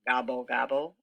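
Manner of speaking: a low grumbled gobble, gobble; grumbling gobble. Acted. Turkey sulking after Cow sees through him, low grumble. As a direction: mutter it like a sulky turkey. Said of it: "grumbled Turkey".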